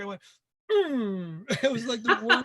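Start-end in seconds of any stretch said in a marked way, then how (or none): 0.7-1.5 mock-feeble angry "mm", loud; badly faked grunt of anger; failed angry grunt. Actor recalling a hopeless angry audition, failed angry grunt. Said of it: "I couldn't get angry".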